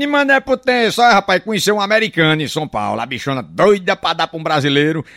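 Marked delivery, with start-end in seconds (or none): none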